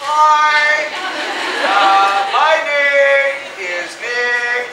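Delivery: hammed-up nerves, loud and dragged out; nervous caller. Speaker on his first call to a school, hammed-up nervousness. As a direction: stretch each word like a tongue-tied first-time caller. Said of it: "I was really nervous".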